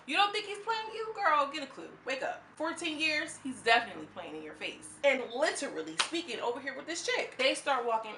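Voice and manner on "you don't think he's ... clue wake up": loud, high, incredulous telling-off; exasperated scolding. Retold or imitated. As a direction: shake her awake with your voice. Like, scolding her friend.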